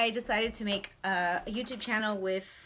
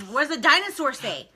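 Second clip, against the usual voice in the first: laughing question; 5 semitones higher, 7 dB louder than usual. Real, not acted. Asking toddler, laughing.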